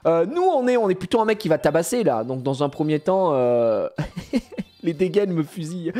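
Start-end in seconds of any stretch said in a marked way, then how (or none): 4.3-5.9 laughing. Real, not acted. Laughing at outfits.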